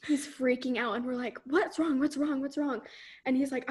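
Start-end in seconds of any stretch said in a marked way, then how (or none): 1.5-2.8 higher, repeated questions tumbling out; mildly panicked retold questioning; acted alarm. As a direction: imitate worried friends pressing him. Friends questioning freaked-out boy.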